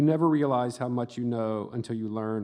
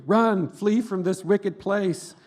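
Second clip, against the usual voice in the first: slow, higher and louder mock doom voice, half laughing; dog's mock warning; 7 semitones higher, 5 dB louder, slower than usual. Voicing the dog warning the narrator, hammed-up doom. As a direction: ham up a dire prophecy while laughing. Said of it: "the dog was saying".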